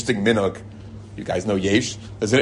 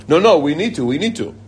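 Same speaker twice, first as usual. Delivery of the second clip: imitated urgent, higher-pitched pleading; insistent protest; 5 semitones higher than usual. Late couple arguing for their place in line, insistent. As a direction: brush off the objection, insisting.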